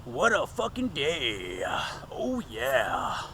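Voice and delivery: breathy worn-out whisper, slowed down. Real, not acted. Vlogger whispering to his viewers about a long day. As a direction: sigh it out under your breath.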